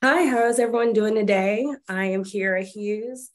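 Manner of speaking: congested, blocked nose voice; stuffy nose. Real, not acted. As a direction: speak through a stuffy nose. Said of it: "Apologize for my stuffy nose".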